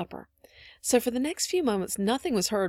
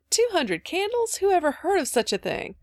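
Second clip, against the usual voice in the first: scandalized disbelief; 10 semitones higher, 4 dB louder than usual. A narrator's reading. Mother hearing of all those candles, incredulous. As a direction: balk at it in high-pitched amazement. Mother exclaims at the absurd idea.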